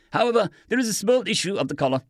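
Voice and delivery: lightly voiced German doctor, careful and calm; understated doctor insisting he is no pirate; captive doctor. A narrator's reading. Doctor answers.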